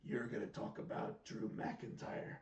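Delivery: imitating Drew. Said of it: "and it's like".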